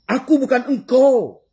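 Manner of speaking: high, slow, loud piping voice of the glass cup; voicing the glass. Preacher voicing the glass cup to the congregation, high and loud. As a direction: squeak it out as a little glass speaking. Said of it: "Kata si gelas kaca".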